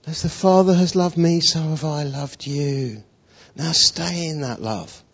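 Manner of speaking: softening into gentle, unhurried love; loving. Acted. Jesus speaks to the failed Simon Peter, lovingly. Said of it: "His voice told love".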